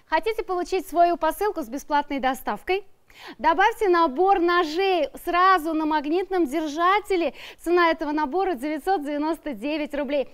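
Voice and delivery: upbeat sales pitch read; infomercial. Acted. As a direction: sell it like a TV shopping host. Shopping channel pitch.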